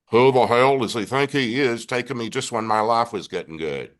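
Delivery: put-on a Georgia man snapping in his rural Georgia accent. Spirit of a Georgia man complaining, in a heavy rural Georgia accent. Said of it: "Wow, that's quite an accent".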